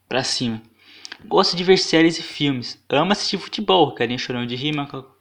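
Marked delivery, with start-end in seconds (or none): 1.2-3.9 voz afetada. Retold or imitated. Lê perfil em voz aguda.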